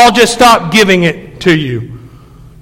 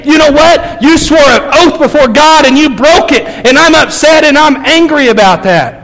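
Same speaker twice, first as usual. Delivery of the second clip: raised, angry betrayed spouse; mock angry; 6 semitones higher than usual. Betrayed spouse tells the cheater off, angry. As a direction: let them hear the hurt and anger. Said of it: "you have a right to be".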